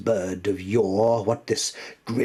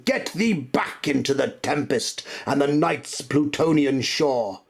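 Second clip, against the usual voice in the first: furious command; 5 semitones higher, 4 dB louder than usual. Acted. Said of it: "I shrieked".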